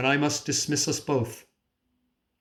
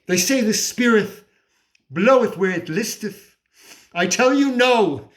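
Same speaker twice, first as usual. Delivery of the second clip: high, insistent rebuttal; indignant defiance; 4 semitones higher than usual. Acted. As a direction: refuse God's word with rising insistence. Argues defiantly against God.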